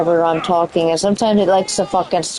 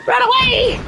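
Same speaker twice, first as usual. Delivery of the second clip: high-pitched panic; 14 semitones higher than usual. Pretend. High panicked joke shout.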